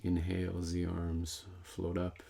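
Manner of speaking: unhurried meditation guidance, pausing between phrases; guided meditation. Real, not acted. Teacher leading meditators in linking arms with breath, calm guided meditation. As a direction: guide them calmly through each breath. Leads breath and arm movement.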